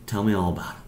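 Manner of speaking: low, gentle invitation to confide; tender. Acted. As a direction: say it like a comforting father. God holds child, invites confiding.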